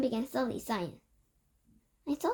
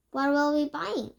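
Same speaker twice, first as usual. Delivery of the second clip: louder, odd-voiced eager question; eager cry; 4 semitones higher, 5 dB louder than usual. A narrator's reading. Witch crying out to her leader, eager. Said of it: "she cried".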